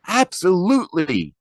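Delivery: a fan's full-throated shout; shouted cheer. Acted. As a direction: yell it from the bleachers. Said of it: "they shout".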